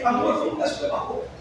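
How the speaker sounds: fast, hushed coaxing to a daughter. Retold or imitated. Father coaxing his daughter to choose an outfit, fast and hushed. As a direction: sweet-talk her into picking clothes. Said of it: "E aí".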